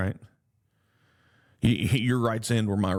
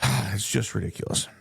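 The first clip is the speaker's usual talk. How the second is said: sighing, resigned repeat; a resigned sigh before "it's just ridiculous"; weary sigh. Real, not acted. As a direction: let it fall out tired and defeated. Sighs, repeats the complaint resigned.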